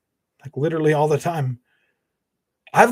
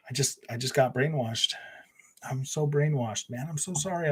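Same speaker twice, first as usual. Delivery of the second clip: unvoiced whispered confession; hushed mock confession; 5 dB quieter than usual. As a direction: whisper it like a guilty secret. Confessing being brainwashed.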